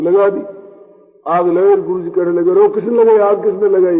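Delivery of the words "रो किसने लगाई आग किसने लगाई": louder, quick outburst of accusation; mock angry demand. Guru questioning students about the fire, mock angry. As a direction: demand the culprit like an upset guru.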